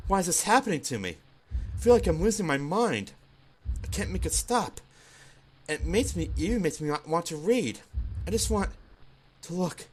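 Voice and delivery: lightly voiced shy girl, panting and losing control; a hint of a timid girl overwhelmed by her racing heart; flustered Yuri. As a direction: play a bookish girl coming apart, breathless and pleading.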